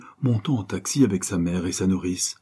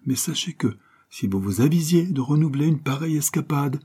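formal, lightly stern scolding; mock-stern mother; 5 semitones higher than usual. Mère sermonne son fils avec une sévérité feinte. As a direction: play the strict parent, half pretending. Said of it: "garder un ton sévère".

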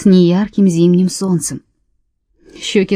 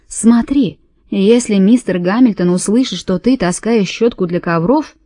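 put-on Irish accent. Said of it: "с отчётливым ирландским акцентом".

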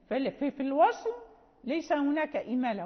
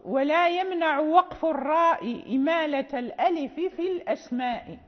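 verse recitation; 4 dB louder than usual. Shown as a demonstration. Teacher announcing the next verse to students, chanted. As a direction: lift into a measured, chanted reading of the line. Reads the verse being explained.

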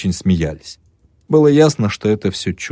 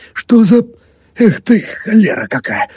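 angry curse; 14 semitones higher, 4 dB louder than usual. Acted. Father-in-law cursing the lamp.

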